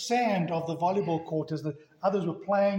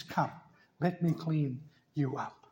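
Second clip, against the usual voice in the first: gentle invitation; 2 semitones lower, 4 dB quieter than usual. Acted.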